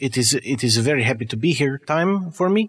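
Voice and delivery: put-on halting, accented man of science; eccentric doctor. Doctor thanks the host for having him, in a pleased accented voice. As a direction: play a pleased foreign scientist, searching for words.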